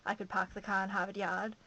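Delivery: dropped r's of a Boston accent. Shown as a demonstration. Vlogger demonstrating a former accent, Boston, r's dropped. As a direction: show off an old Boston accent, lightly. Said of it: "I used to have a Boston accent".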